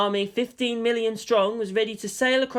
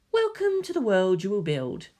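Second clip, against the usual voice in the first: Caro, villain welcome; 2 semitones higher than usual. Acted. Caro welcomes humanity to his world, smug. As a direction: greet them like a smug new master. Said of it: "said Caro".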